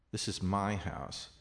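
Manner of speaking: "my" picked out above the other words; emphatic "my"; stress on my. Shown as a demonstration. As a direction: lean on "my", then let the rest fall. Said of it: "indicated by the stress of the voice".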